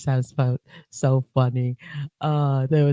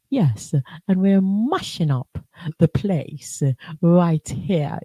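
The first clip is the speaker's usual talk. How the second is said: put-on patois in English accent; 2 semitones higher, slower than usual. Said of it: "talking all patois, but in a very English accent".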